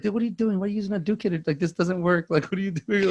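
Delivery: high-pitched disbelief, acted; retold exasperation. Cousin stopping a silly fight move, exasperated. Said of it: "I was like".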